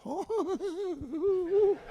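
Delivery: stunned oh. Retold or imitated. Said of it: "I'm like".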